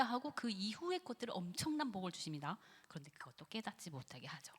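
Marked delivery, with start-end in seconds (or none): 2.9-4.5 low hushed whisper. Acted. Preacher whispering a warning about Satan. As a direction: breathe it as a warning.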